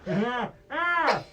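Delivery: high, loud, gasping through laughter; laughing too hard to breathe; helpless laughing plea; breathless with laughter. Real, not acted. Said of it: "I can't breathe".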